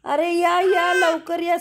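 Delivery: high excited call to the others. Real, not acted. Mother calls the family over to see the baby cry, high and excited. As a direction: call everyone over, quick, something's happening.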